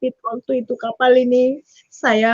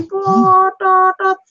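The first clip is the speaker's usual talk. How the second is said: drawn-out high honk like a ship's horn; ship horn imitation; 6 semitones higher, 4 dB louder, much slower than usual. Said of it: "trompet kapal sudah berbunyi". (tiruan bunyi terompet kapal, panjang dan tinggi)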